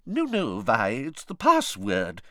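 gently setting her straight, unhurried; soothing. A narrator's reading. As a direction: soothe an offended friend in a lady's put-on voice. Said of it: "said the fat lady soothingly".

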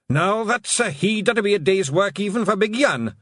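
high, loud Scottish pixie brogue; Feegle pixie voice. Acted. Rob Anybody to his lads, high Scots pixie voice. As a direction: bluff little Scots warrior sizing up a whale.

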